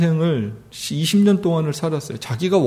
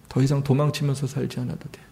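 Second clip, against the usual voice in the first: softer reassurance; 6 dB quieter than usual. Acted. Repeat, much softer.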